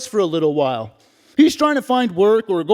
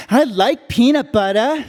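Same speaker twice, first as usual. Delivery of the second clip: a lightly voiced little kid, higher; young boy proud of his sneaky habit; five-year-old; 4 semitones higher than usual. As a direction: tell it like a small child confessing. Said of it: "and I'm five years old".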